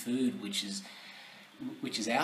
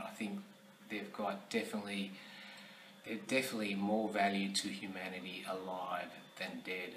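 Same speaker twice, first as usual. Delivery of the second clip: soft, lowered, earnest appeal; sincere plea; 4 semitones lower, 7 dB quieter than usual. Real, not acted. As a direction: quietly plead for mercy, respectfully. Closing personal plea to the president.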